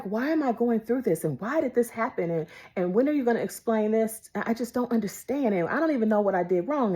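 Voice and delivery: pleading complaint. Retold or imitated. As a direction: run off a list of grievances to God. Retelling complaints to the Lord.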